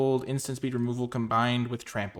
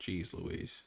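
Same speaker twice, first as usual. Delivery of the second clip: ordinary talk, nothing marked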